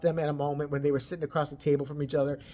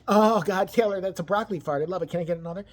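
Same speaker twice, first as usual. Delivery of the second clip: mock gushing friend; 3 dB louder than usual.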